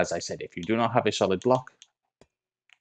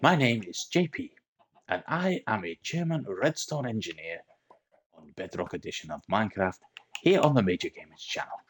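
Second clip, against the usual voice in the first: mock German accent, drifting in and out; put-on German accent. Minecraft tutor explaining a chicken farm in mock German accent. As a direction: play a German engineer with a lightly put-on German accent. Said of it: "I don't know where my accent is going".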